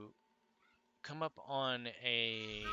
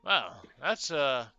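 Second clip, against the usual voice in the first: much higher and louder, a fussy polite bird-man; high-pitched owlfolk stranger; 10 semitones higher, 14 dB louder than usual. Acted. Bird-man begging the party for help, high and fussy. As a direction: chirp it out, flustered but courteous. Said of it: "he turns and looks and goes".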